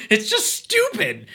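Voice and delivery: high-pitched laugh through words. Real, not acted. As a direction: laugh it out, slowly.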